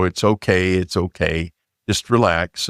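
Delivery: low, hushed soothing murmur, lightly imitated; softly calm someone who is pinned down; gentle and soft. Intruder woman soothing the pinned-down narrator, gently and softly. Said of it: "the woman's voice is speaking very gently and softly".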